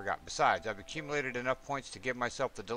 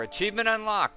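much higher and louder; gleeful cheer at the achievement popup; excited; 9 semitones higher, 5 dB louder than usual. Real, not acted. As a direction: announce the unlock like you just won.

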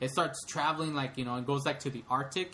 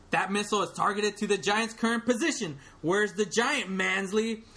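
higher, louder gruff general; stern general; 7 semitones higher, 4 dB louder than usual. Retold or imitated. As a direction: demand answers like an army general. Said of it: "read it in character of all the".

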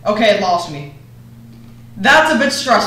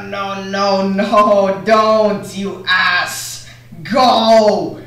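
being chased; much slower than usual. Real, not acted. Bear chasing, urging escape.

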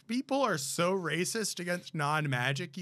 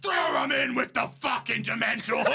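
mock shouted order; 2 semitones higher, 3 dB louder than usual. Harry Potter world voiced.

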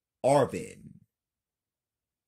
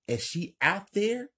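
nervous; 12 semitones higher, 4 dB louder than usual. Acted.

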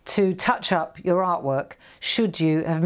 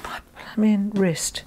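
whispered grumble. Real, not acted. Muttered complaint about wrist.

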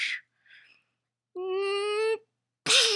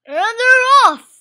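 loud, drawn-out race call, slower; announcer's race-start call; 5 semitones higher, 8 dB louder, slower than usual. Pretend.

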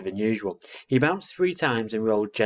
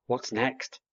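owlet asking; 3 semitones higher than usual. Acted. Owlet asks again after fish.

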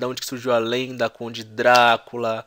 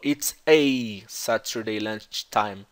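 the a in "Saturday" flat and closed, American style, said very slowly; slow American take of "It's a Saturday lunchtime"; American accent; 2 semitones lower, much slower than usual. Shown as a demonstration. Teacher showing students how an American would say it. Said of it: "Perceba que ele não falou".

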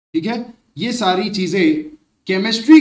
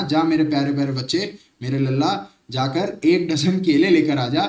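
a bit lower, sweetly coaxing mom; mother sweet-talking her son into an errand; doting mother; 3 semitones lower than usual. Retold or imitated. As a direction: coax the child like a loving mother. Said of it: "sir, इतने प्यार से अगर बोला जाए".

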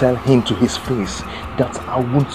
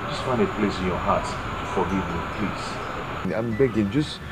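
desperate pleading. Acted. Man begging on knees, pleading.

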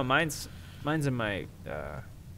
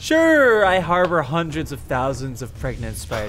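mock admission; 4 dB louder, slower than usual. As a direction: own up with exaggerated readiness. Mock confession after spider accusation.

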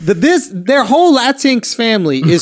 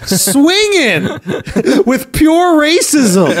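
laughing; 6 semitones higher, much slower than usual. Real, not acted. Laughing at friend's joke.

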